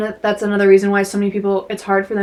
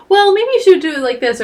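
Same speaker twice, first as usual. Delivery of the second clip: high mock-helpful voice, settling as it goes; pushy advice-giving; 9 semitones higher, 4 dB louder than usual. Friend pushing advice on someone venting, imitated high and pushy. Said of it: "they try to shout advice at you".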